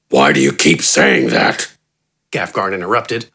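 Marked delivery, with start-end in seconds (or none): 0.1-1.7 very low, gruff orc voice; annoyed brute. A narrator's reading. Gafgarn interrupting Wither, low and annoyed. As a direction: growl it out, irritated.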